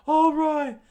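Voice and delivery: high, loud rallying yell; screamed announcement. A narrator's reading. Usopp raising his beer stein to the crew, screaming. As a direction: yell it out to a rowdy crowd. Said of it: "Usopp screamed out as he raised".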